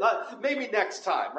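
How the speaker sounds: slow, offhand "maybe next time"; casual brush-off. Retold or imitated. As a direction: shrug it off lazily. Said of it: "That's what they're saying".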